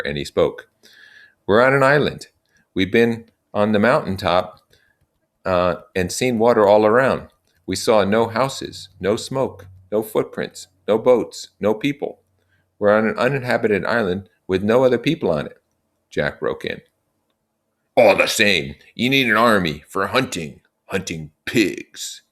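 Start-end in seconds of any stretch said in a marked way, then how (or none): 1.5-15.6 put-on raised, earnest young leader; Ralph addressing the boys. Ralph explaining their situation to the assembly, earnest and raised. 18.0-22.2 put-on a pushy boy cutting in; Jack interrupting. Jack breaking in on Ralph's meeting, pushy.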